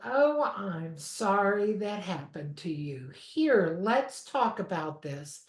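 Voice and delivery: imitating patient staff, soft and soothing; calm soothing voice. Instructor imitating patient complaint-line ladies, mildly soothing. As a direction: mimic a calm phone agent gently. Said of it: "they talk like this".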